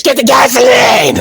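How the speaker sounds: high shouted command; screaming. Retold or imitated. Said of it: "He just keeps screaming it".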